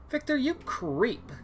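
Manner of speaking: high, slow hammed-up sob at the ex; mock crying. Finding the ex's tracker, a hammed-up tearful wail. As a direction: wail his name like a jilted girlfriend.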